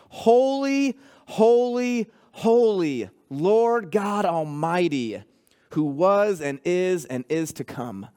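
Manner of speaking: slow, rising proclaimed cry of holy; lightly chanted worship cry; creatures crying holy. Acted. Creatures around the throne cry out forever, slow proclaimed cry.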